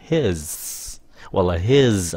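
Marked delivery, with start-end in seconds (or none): 0.1-0.7 HIS with the last sound hissed out; final hiss on HIS. Shown as a demonstration. Teacher reminds class not to drop the ending, hissed HIS. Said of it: "đừng có quên xì nó". 1.5-2.1 HIS ending in a z sound. Shown as a demonstration. Teacher offers the other ending, HIS with a z. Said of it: "âm Z".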